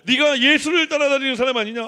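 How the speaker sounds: a hint of an accusing voice; accusing servant. Servant at the fire accusing Peter, lightly accusing. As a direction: jab the question at him.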